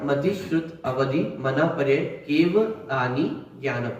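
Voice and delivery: slow, separated sutra words with a light laugh; careful slow recitation. Shown as a demonstration. Teacher showing students the right way to recite, slow and careful. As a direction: read each word of "मति श्रुत अवधि" slowly and distinctly. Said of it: "सही तरीका से अपन ने पढ़ा".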